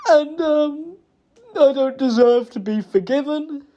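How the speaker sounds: real crying, high strained voice; high-pitched, grief-stricken remorse; tearful apology. Real, not acted. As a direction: plead through tears, with long broken pauses.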